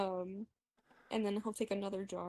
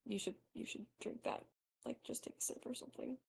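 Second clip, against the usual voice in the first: whispering; 2 semitones higher, 10 dB quieter than usual. Acted. Merrick urging Markless softly.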